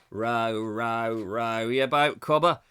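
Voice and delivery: a Roman rowing, done badly in Australian; lightly sung row your boat in weak Australian accent. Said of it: "I'm not very good on an Australian accent".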